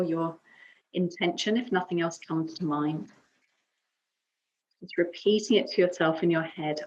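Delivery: calm yoga teacher's guiding voice, long pauses between phrases; guided meditation. Acted. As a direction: guide them gently into breath and stillness. Leads calm breathing and affirmation.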